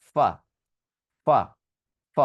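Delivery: isolated English f, repeated as ফ; lip-and-teeth ফ. Shown as a demonstration. Teacher drilling the class, separate English f sounds for ফ. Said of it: "উপরের দাঁত আর নিচের ঠোঁটকে touch করাবো".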